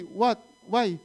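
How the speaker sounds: short rising "What?" then "Why?"; curt questioning reply. Retold or imitated. Father quoting what his son mustn't say, curt questioning reply. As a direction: mimic a child's offhand comeback. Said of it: "Don't talk like that".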